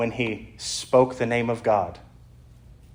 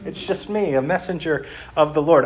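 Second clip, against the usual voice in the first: higher, breezy angel voice; a many-eyed monster sounding casually friendly; mock cheery angel; 4 semitones higher than usual. Meme angel reassuring a terrified person, mock breezy.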